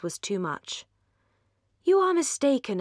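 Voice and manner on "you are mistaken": raised, louder insistent objection; warm protest. A narrator's reading. Marianne contradicting her sister Eleanor, heated and raised. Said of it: "she said warmly".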